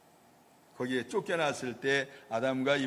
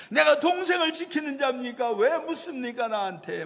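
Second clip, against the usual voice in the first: high, louder indignant challenge; retold defiant retort; 9 semitones higher, 4 dB louder than usual. Cain talking back to God, high indignant retort. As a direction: throw the question back at God. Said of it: "막 이렇게 따졌던 거".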